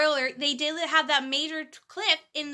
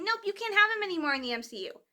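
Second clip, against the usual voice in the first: mock studio dismissal; 4 semitones higher, faster than usual. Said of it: "And now they're saying".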